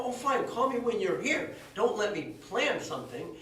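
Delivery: high, loud mock complaint; mock exasperated. Teller answers Mitz's surprise call, mock annoyed.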